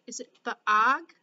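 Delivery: ordinary delivery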